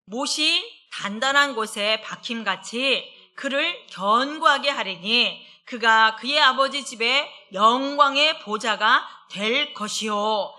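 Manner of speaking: slow, weighty reading of the verse; scripture reading. Acted. Preacher reading scripture to the congregation, slow and weighty. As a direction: read the verse slowly and solemnly.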